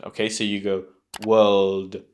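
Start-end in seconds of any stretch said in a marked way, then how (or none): 1.3-2.0 world, silent R, L into a light D; soft final D. Shown as a demonstration. Teacher modelling the whole word, soft final D. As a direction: say world with just a tap of D. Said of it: "add a very soft D on the end".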